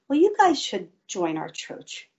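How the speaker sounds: offhand friendly invitation, retold; tossed out lightly, as a passing idea; casual. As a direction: imitate a niece casually suggesting it. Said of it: "says to me really casually".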